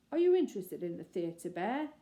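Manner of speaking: booming. Acted. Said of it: "he boomed".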